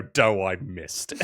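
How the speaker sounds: Wario voice. Retold or imitated. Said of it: "for Wario to go".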